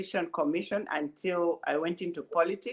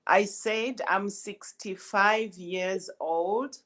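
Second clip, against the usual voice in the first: slower, deliberate repeat for a bad line; speaking up; 3 semitones higher, slower than usual. Real, not acted. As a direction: say it again slowly so the caller catches it. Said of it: "speak up a little bit more?".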